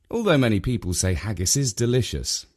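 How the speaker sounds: ordinary delivery, nothing marked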